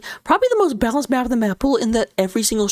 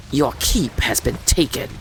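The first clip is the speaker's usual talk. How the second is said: deep Alarak voice; 9 semitones lower, slower than usual. Retold or imitated. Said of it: "Alarak will be like".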